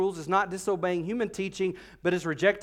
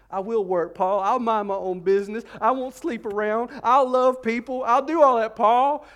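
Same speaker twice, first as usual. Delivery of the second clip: pleading vow building to a loud, high cry; tearful pledging; 4 semitones higher, 5 dB louder than usual. Retold or imitated. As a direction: promise Paul everything through tears. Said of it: "They're, they're going".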